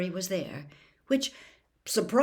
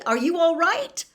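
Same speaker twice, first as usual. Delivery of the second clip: put-on boy shouting to a collapsed man; loud; 10 semitones higher, 7 dB louder than usual. A narrator's reading. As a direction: call out to rouse him. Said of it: "Harry said loudly".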